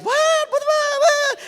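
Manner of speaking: very high, loud squawk of disbelief; imitated dads squawking in shock; hammed-up stunned outburst; mock astonishment.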